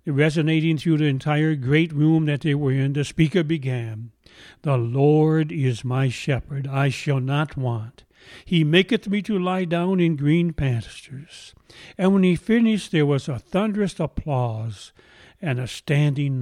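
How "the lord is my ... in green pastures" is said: trained orator. Retold or imitated. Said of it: "In a beautiful trained voice".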